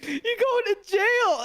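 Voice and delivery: taunting the driver after the crash; mock yell. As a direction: jeer it out slowly. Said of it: "It's like".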